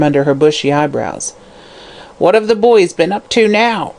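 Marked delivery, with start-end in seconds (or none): 2.2-3.9 harsh question. Acted. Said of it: "she asked harshly".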